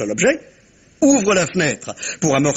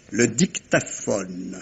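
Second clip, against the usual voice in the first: slow reveal; 8 semitones lower, 6 dB quieter, much slower than usual. Acted. Révélation de l'objet caché.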